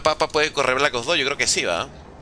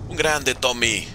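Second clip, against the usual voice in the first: ordinary talk, nothing marked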